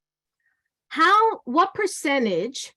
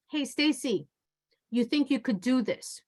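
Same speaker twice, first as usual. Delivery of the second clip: softer, gentle request; toned-down voice; 4 dB quieter than usual. Shown as a demonstration. Trainer demos asking a coworker kindly, soft and polite. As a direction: ask nicely, no edge at all. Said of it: "Now I tone down the voice".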